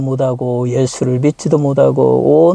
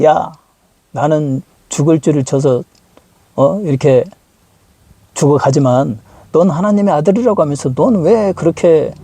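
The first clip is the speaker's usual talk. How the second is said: mocking. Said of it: "하면서 조롱을 했어요".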